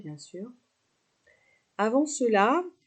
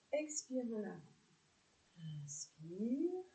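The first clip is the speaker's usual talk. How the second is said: softer, unhurried breathing instructions; guided yoga cues; 5 dB quieter than usual. Real, not acted. Yoga teacher guiding neck stretches with the breath, calm guided delivery. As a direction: guide the breath gently, with spaces between cues. Leads shoulder breathing exercise.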